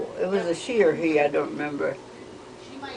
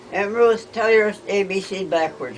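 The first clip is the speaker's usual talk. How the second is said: raised, louder calling voice at first; retold holler; 4 semitones higher, 3 dB louder than usual. Niece calling to her aunt at the end, retold holler. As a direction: imitate calling down a long table, easing off. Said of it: "she hollered down".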